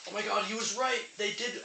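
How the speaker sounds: sudden high surprised exclamation. Real, not acted. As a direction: gasp it out, caught off guard. Real realization about the straw.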